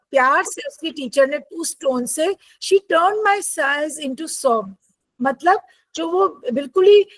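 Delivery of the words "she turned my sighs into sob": very slow, careful dictation; slow reading aloud. Shown as a demonstration. Teacher reading the textbook line slowly to her students. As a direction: spell it out slowly for the class.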